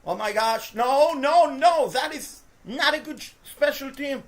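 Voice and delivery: horrified protest at the screen; dismayed outburst. Real, not acted. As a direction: groan at a bad kickoff. Bad special teams play.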